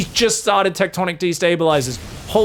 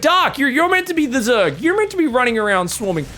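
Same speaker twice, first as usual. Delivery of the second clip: scolding Dark; 8 semitones higher than usual. Retold or imitated. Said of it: "I'm like".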